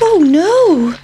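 high, squeaky little cry of worry; a frightened pancake gasping; pancake's squeak of alarm. Acted. Pancake realising it will be eaten, high alarmed squeak.

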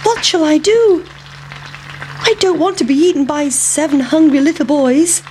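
high, anxious little pancake voice; a worried pancake fretting to itself; pancake character voice. Acted. Pancake dreading the hungry boys, high worried voice.

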